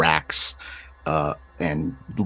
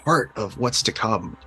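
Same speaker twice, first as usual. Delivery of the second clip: lightly voiced smooth-talking manipulator, raised pitch; Kanawa; 5 semitones higher than usual. Kanawa explaining destiny to a child, lightly acted coaxing. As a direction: coax a child, with a hint of character voice. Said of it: "then you hear Kanawa's voice".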